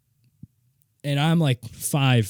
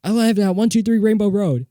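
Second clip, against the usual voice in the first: put-on dazed kid answer; 10 semitones higher, 5 dB louder than usual. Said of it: "retold answer to neighbor".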